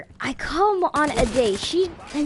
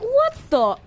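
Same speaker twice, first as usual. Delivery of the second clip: shocked; 9 semitones higher than usual. Retold or imitated. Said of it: "I'm like".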